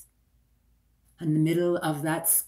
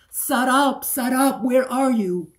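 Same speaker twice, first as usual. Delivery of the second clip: higher and louder, calling desperately down a corridor; crying out; 7 semitones higher, 8 dB louder than usual. Acted. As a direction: call out for her lost friend. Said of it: "crying out again and again".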